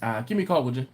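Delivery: lightly voiced halting voicemail; imitating Ed's voicemail. Mimicking manager Ed's voicemail to the crew, mild. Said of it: "it went like this".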